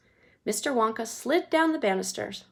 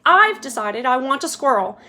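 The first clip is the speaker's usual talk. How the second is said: put-on bratty demanding girl; 3 semitones higher, 8 dB louder than usual.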